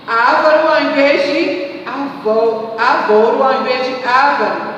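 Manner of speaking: avaro stressed on ro, ávaro stressed on á; ávaro with the stress moved back; stress contrast. Shown as a demonstration. Teacher contrasting the stress of ávaro for the class. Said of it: "Prosódia".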